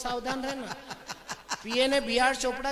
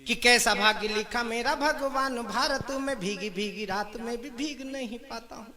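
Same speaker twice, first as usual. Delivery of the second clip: poem recitation. Acted. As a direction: recite to the crowd in rhythmic phrases. Recites his comic verse.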